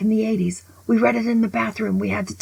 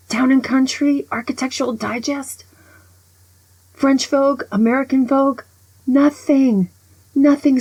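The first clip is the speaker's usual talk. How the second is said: exasperated listing; 6 semitones higher, 4 dB louder than usual. Real, not acted. Exasperated magazine rant.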